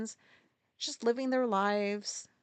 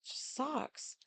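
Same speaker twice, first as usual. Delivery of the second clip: whispered sigh; 4 semitones higher, 9 dB quieter than usual. Real, not acted. Trailing sad aside.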